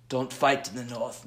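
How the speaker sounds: low, badly faked accented voice; Littlefinger. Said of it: "I apologize here for my Littlefinger voice".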